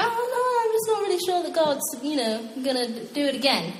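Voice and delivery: high, fretful doubter; mock the worried believer; doubtful whine. Believer voiced doubting God, mock fretful and high.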